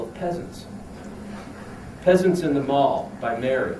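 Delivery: deliberate comic reading with punched phrases; declaimed humorous prose, pausing between sentences; literary reading. Acted. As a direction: read it out to an audience, deadpan and emphatic. Reads own comic prose piece.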